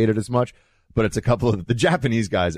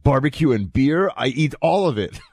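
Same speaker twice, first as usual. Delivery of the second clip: quoting Japanese tourist; 6 semitones higher than usual. Retold or imitated. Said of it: "I won't do his accent".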